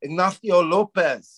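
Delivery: "Ignacio Lopez" with th for the c and z; Spanish th pronunciation. Retold or imitated. Comic quoting his buddy's name, "Ignacio Lopez" with Castilian th. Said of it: "how his name is actually pronounced".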